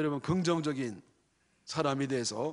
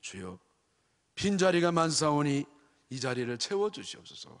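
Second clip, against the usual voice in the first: mock prayer leader. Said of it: "대표 기도할 때".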